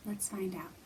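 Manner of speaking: secret whisper. Acted. Teacher whispers to build suspense for kids. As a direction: lean in and whisper it. Teasing the next verse.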